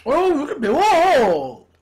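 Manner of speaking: eating between words; talking while chewing. Real, not acted. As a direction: mouth partly full of pizza. Seen 1: Holds pizza by mouth after biting; jaw appears busy while speaking.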